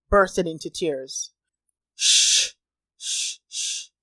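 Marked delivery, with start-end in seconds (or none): 1.9-3.9 hushing. A narrator's reading. Friend hushing the crying girl, whispered. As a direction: soothe her with a whispered shh.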